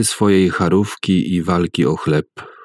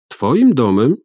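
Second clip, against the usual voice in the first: cried out; 6 semitones higher, 3 dB louder than usual. A narrator's reading. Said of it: "krzyknęła jego żona".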